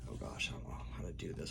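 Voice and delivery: fast unvoiced mutter to herself; reading under breath. Real, not acted. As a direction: mumble it quickly under your breath. Flustered aside while starting reading.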